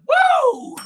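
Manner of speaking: high whooping yell; excited whoop. Real, not acted. Host whooping after his opening song. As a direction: let out a big high woo. Hype shout.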